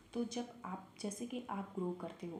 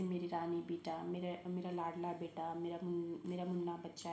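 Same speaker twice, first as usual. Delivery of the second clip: loving mother; 2 semitones lower than usual. Retold or imitated. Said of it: "ऐसा बोलते हैं ना मम्मा लोग घर पे".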